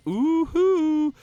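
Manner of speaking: high drawn-out hoot; excited hoot. Real, not acted. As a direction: let out a slow happy whoop. Excited game commentary.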